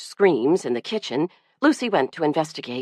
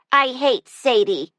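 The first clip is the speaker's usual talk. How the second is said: put-on upset child; 7 semitones higher than usual. A narrator's reading. Upset crying little girl.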